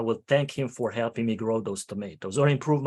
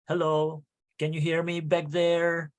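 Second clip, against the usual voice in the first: fussy weak opening; 4 semitones higher than usual. Retold or imitated. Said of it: "Don't start with".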